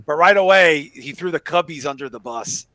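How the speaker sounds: a broad, loud Chicago accent put on. Host telling a story about the brother, in a put-on Chicago accent. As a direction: lay the Chicago accent on thick. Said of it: "I'm gonna stop the accent".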